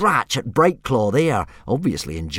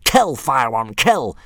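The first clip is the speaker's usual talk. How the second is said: yelling; 3 semitones higher, 3 dB louder than usual. Acted. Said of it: "Snotlout broke off from yelling".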